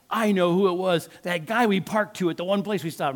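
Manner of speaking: heated retold outburst; retold anger. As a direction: re-enact an angry accusation. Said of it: "I mean, I'm mad".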